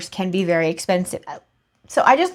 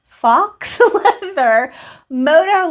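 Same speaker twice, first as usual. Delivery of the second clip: laughing over the word; 7 semitones higher, 4 dB louder, much slower than usual. Real, not acted. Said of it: "It sounds like I'm saying fox".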